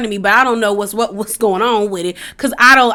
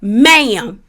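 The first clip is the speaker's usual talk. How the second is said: escalating angry ma'am; 3 semitones higher, 4 dB louder, much slower than usual. Retold or imitated. Sutton scolding Anne-Marie, ma'am getting louder each time. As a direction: build from firm to an outraged wail. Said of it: "You got Sutton saying".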